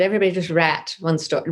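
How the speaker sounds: "rat" for write, in a lightly imitated South African accent. South African writer instructs her workshop, imitated accent. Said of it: "in her South African voice".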